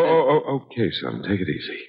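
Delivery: tender, reassuring fatherly hush; soothing father. Acted. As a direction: ease him down gently, son. Father calms drunk son.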